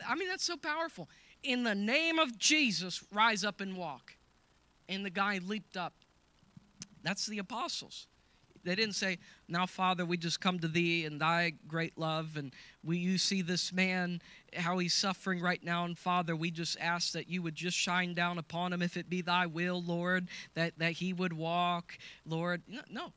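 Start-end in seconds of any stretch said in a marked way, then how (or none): 1.4-4.2 commanding proclamation. Acted. Repeats the apostles' command. 9.5-22.6 lightly parodied long-winded prayer; a hint of a droning pastor; gently mocking a timid prayer; mock churchy prayer. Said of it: "doesn't sound like church, though".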